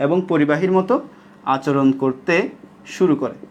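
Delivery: phrase by phrase with short pauses; measured dictation. Shown as a demonstration. Teacher makes sure every student gets the line, measured dictation. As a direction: dictate it in separate chunks. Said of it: "আমি একদম আস্তে আস্তে বলতেছি".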